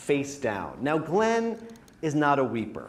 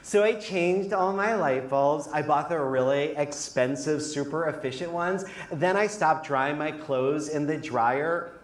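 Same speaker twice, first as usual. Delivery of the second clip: personal purge voice. Acted. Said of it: "this is what the personal purge sounded like".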